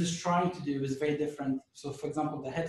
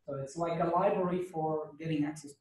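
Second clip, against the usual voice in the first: hoarse, losing his voice; a hoarse, strained voice. Real, not acted. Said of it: "I'm losing my voice".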